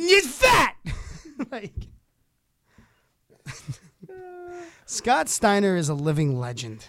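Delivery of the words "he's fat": high-pitched wrestler-style ranting voice. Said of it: "Scott Steiner losing it on national television".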